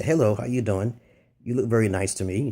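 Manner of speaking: low, even, lifeless greeting; deadpan compliment with no animation; monotone. Shown as a demonstration. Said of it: "monotone approach".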